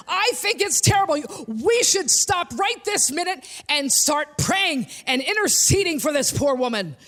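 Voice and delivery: mock righteous scolding of the singer; heckling church woman. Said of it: "starts heckling me".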